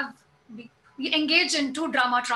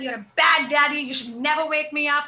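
mild mock yell, louder on the opening; retold shouting; 4 dB louder than usual. Mother retells her son yelling at his dad, mild mock shout. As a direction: imitate a child telling a parent off, raised voice. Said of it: "I shouted at him. I yelled at him".

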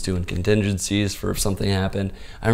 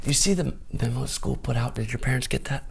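lighter, higher-pitched hint of a Canadian accent; Canadian teacher accent; 5 semitones higher than usual. Canadian teacher asking about the parents' memo, slight Canadian accent. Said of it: "I don't know if this accent's terrible".

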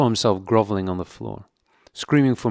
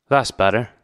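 put-on coarse old woman; 2 semitones higher, 5 dB louder than usual. A narrator's reading. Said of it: "she said".

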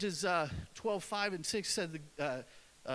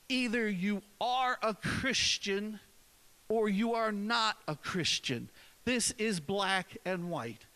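emphatic preaching; 2 semitones higher, 3 dB louder, slower than usual. Real, not acted. Preacher driving home his point.

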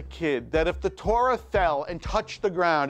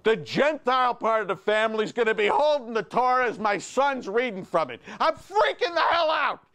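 retold panic. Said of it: "and I'm thinking".

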